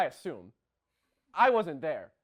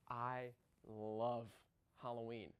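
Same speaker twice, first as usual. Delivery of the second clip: low, very soft, word by word; hushed confession; 7 semitones lower, 15 dB quieter, slower than usual. Acted. Host confessing love of Halloween, hushed. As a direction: drop right down and savour each word.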